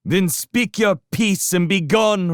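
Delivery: high, loud, defiant retort; harsh and unafraid. Acted. Constance answering the rats from the wall, harsh loud defiance. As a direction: send them packing without fear. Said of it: "reply was harsh and unafraid".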